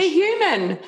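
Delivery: high, giggling through the words; laughing. Real, not acted. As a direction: laugh as you say it. Host laughs at the sneeze.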